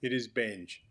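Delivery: says "Benge" clearly and carefully, as the correct way to say it; name pronounced. Shown as a demonstration. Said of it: "How do you pronounce your last name?".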